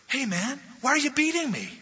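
high, rising, pleading donkey voice; indignant donkey crying out to its master; talking donkey. Acted. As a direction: squeal it out like a wronged donkey. Donkey speaks to Balaam.

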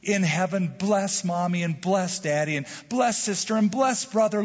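sweet, lightly voiced child at prayers; pious little boy. Little boy praying at bedside before his parents, pious and sweet. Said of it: "he was being so pious, so sweet".

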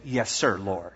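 soft, low, submissive; bow your voice down in surrender; a soft, meek "Yes, sir, Lord"; yielding yes. Shown as a demonstration. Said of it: "If it's the Lord, you say".

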